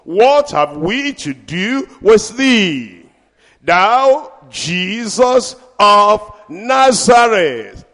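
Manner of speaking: slow, drawn-out cry of the spirit; demon crying out. Acted. Preacher voicing the unclean spirit in the synagogue, slow drawn cry. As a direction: stretch it like a pleading demon. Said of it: "he cried out".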